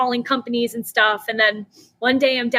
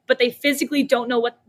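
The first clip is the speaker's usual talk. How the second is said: usual speaking voice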